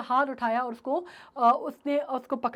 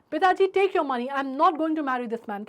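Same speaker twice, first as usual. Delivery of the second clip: loud refusal; 4 dB louder, slower than usual. Acted. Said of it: "in clear loud voice".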